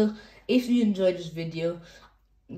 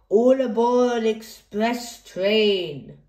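louder, slow conductor call; mock train conductor; 3 semitones higher, 5 dB louder, slower than usual. Reader voicing a kid playing trains, slow louder announcement.

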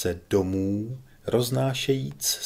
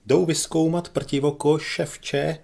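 higher, louder jeering call; piercing voice; 6 semitones higher, 4 dB louder than usual. A narrator's reading. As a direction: cut through the hall with it. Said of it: "zavzněl pronikavý hlas".

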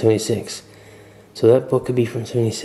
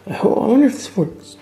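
hiccups; 10 semitones higher than usual. Real, not acted. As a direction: voice jumping on a hiccup. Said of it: "got the hiccups".

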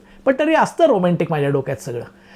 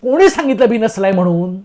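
indignant retort, mildly acted; imitated irritation; 2 semitones higher, 3 dB louder than usual. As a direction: snap back as the offended man. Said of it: "तेही चिडले".

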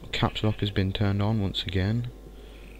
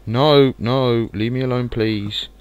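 panicked plea; 3 semitones higher, 6 dB louder than usual. Real, not acted. Mobs swarm the gamer.

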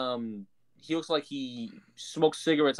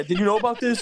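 imitating Matt Hardy; 6 semitones higher, 6 dB louder than usual. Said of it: "he goes".

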